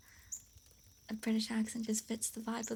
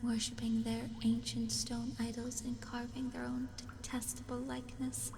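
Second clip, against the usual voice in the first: horror story narration. A narrator's reading. Streamer reading Lovecraft's Dagon to viewers, dramatic narration. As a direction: narrate it with deliberate pauses and weighted phrases.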